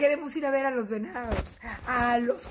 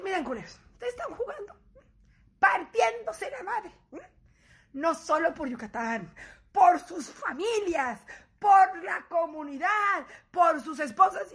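slower, louder rallying speech; mock pep talk; 5 semitones higher, 5 dB louder than usual. Wife lecturing the players in the locker room, slow and louder. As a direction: rouse the team like a coach.

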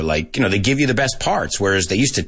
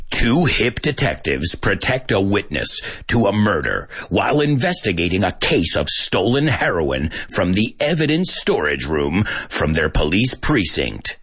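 movie trailer voice. Shown as a demonstration. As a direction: announce it like a film trailer. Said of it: "my movie trailer voice".

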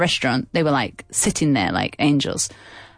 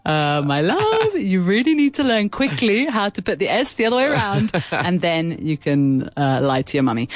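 tender teasing. Retold or imitated. Mother teasing her daughter.

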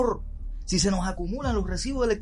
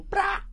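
crash sound effect; 12 semitones higher, 5 dB quieter than usual. Shown as a demonstration. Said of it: "deja caer un plato".

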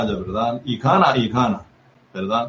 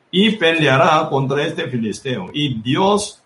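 slow, measured Bible verse reading; scripture reading. A narrator's reading. Preacher reads David's words to Saúl for the congregation, slow scripture reading. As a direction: read the verse out deliberately, slowly.

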